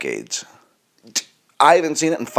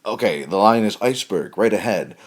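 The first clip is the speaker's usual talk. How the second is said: bored audition read; 2 semitones lower than usual. Retold or imitated. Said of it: "the guy at the audition".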